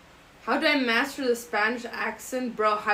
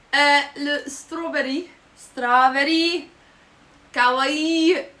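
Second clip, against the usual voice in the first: higher, louder mock Japanese accent; 4 semitones higher, 6 dB louder, slower than usual. Showing off fake Japanese to viewers, cutesy squeal. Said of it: "I can also speak Japanese".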